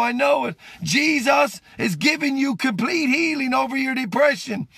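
rising, insistent prayer voice, pushing it out to the viewers; a street preacher praying over his live audience; fervent prayer. Real, not acted. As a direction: preach the healing prayer with full force.

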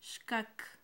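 Shkak with sh then a crisp kak; Mam word, clearly modelled. Shown as a demonstration. Teacher models the Mam word for the next color, clearly. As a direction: model Shkak for students to echo. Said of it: "Otra vez".

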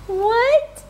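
high, loud, puzzled what. Real, not acted. Asks again, louder each time.

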